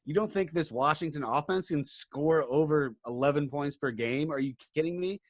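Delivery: muffled behind a face mask; talking muffled through a mask. Real, not acted. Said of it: "I can't talk with this mask on".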